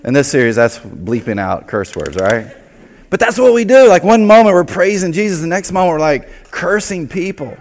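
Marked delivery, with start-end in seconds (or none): 3.1-5.7 laughing. Real, not acted. Laughing at church hypocrisy.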